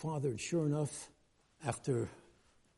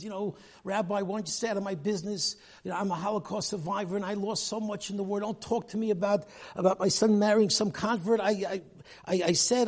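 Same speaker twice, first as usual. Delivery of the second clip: angry rebuff; 5 semitones higher, 3 dB louder than usual. Retold or imitated. Father rebuffs the rabbi angrily.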